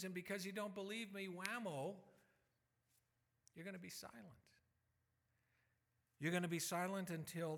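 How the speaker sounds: a put-out angel scolding a doubter; indignant angel. Retold or imitated. Preacher voicing Gabriel rebuking Zacharias, indignant. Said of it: "he would have been incensed".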